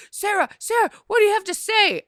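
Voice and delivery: high, pushy mock reporter call; clamoring reporters. Imitating news crews in Sarah's face, clamoring for comment. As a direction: call out over the press pack, hammed up.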